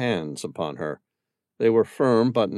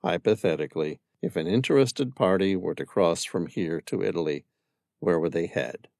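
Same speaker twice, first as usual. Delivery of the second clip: softened tone; 3 semitones lower than usual. Acted. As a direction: ease her into answering. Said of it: "He softened his tone".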